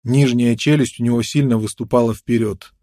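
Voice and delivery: ordinary talk, nothing marked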